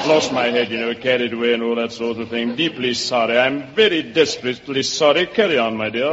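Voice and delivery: lightly put-on English gentleman; apologetic English accent, toned down. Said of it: "that's a wonderful English accent".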